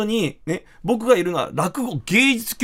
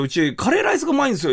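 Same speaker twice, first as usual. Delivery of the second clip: fast owner boast; 6 semitones higher, faster than usual. Retold or imitated. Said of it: "って言われて".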